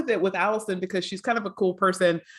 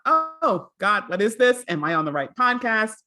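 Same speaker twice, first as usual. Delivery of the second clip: mock bafflement; 2 semitones higher than usual. Host imagining a listener doubting the podcast, mock bafflement. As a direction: lightly act out a confused listener.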